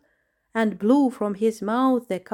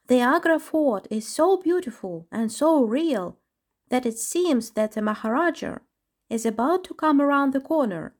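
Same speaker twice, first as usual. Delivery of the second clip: marveling chipmunk; 6 semitones higher than usual. Acted.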